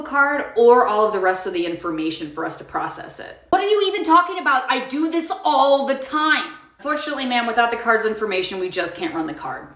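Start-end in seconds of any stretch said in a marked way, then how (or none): 3.5-6.5 indignant disbelief. Acted. Customer indignant at manager.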